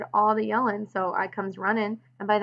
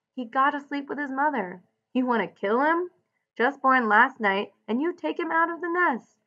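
loud scolding, pitched up at times; 3 semitones higher, 4 dB louder than usual. Acted. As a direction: scold him hard over the puppy. George scolding Lenny over the pup.

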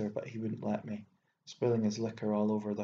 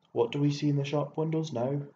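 put-on old man crying out, higher and louder; cried out; 4 semitones higher, 5 dB louder, faster than usual. Old man cries out to the city boy about glass. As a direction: cry it out at the shop windows. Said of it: "he cried".

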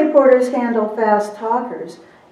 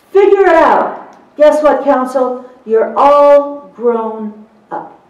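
louder, emphatic lecture with slowed punches; blunt no-nonsense attitude; 3 semitones higher, 6 dB louder than usual. Shown as a demonstration. Court reporter telling colleagues what to think of fast-talking counsel, emphatic and loud. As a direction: lay down the law, tough-love style. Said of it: "Now, that's my attitude".

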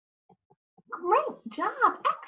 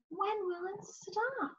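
soft asking question; 6 semitones higher, 13 dB quieter than usual. Shown as a demonstration. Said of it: "So I'm asking a question".

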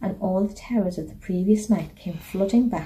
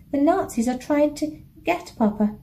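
wailing; 6 semitones higher than usual. A narrator's reading. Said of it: "wailed Anna".

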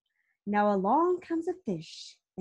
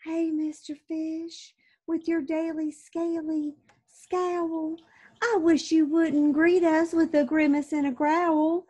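mild jellyfish voice; 4 semitones higher, 5 dB louder than usual. Acted. Jellyfish chiding the fish, lightly higher gentle voice.

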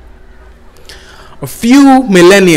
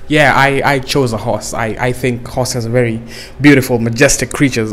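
sexy horse; 6 semitones lower, 4 dB quieter than usual. Pretend. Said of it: "a horse going like".

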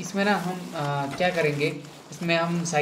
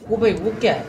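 high, loud startled cry; startled shout; 6 semitones higher, 8 dB louder, faster than usual. Real, not acted. Gamer spots something odd on screen, loud high startled cry. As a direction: yelp at something unexpected. Strange thing spotted in game.

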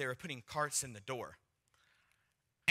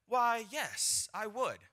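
higher-pitched acted-out stranger; imitated eager agreement; 8 semitones higher, slower than usual. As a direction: play the man readily agreeing. Acting out the stranger's answer.

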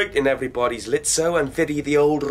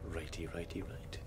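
sleepy mumble; 10 semitones lower, 20 dB quieter than usual. Acted. Groggy patient answers softly.

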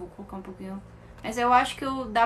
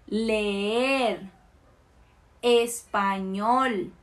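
example words drawn out syllable by syllable; careful word list, stressed syllable stretched; model pronunciation; much slower than usual. Shown as a demonstration. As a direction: enunciate each word slowly for learners. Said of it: "vamos con algunas palabras".

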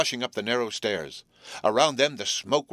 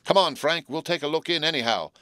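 raised excited call; shouted; 6 semitones higher than usual. A narrator's reading. Jerry calls his chum toward the fire with a shout. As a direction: shout it as he runs off. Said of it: "shouted Jerry".

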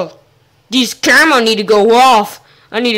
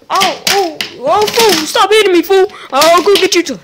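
loud pained pleading; 7 semitones higher, 4 dB louder than usual. Real, not acted. Begs to stop being hit.

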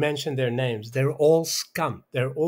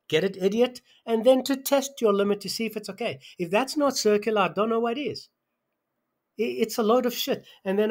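higher, agitated scolding; real exasperation, voice pushed higher; worked-up rant; 6 semitones higher than usual. Real, not acted. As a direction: pitch climbing as the outrage builds. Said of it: "I'm so worked up".

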